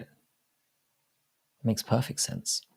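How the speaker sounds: slow, hushed conspiratorial whisper; drawn-out whisper of mock revelation. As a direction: let it dawn on you in a whisper.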